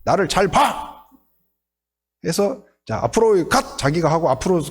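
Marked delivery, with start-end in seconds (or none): 0.0-1.0 slow, exasperated acted command; angry drill instructor. Fed-up instructor about to demonstrate for crab recruits, acted angry command. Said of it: "막 화가 나가지고". 2.8-3.8 lightly acted marching command; drill instructor. Instructor demonstrating the forward march to crab recruits, lightly acted command. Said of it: "교관이 빨간 모자를 딱 쓰고".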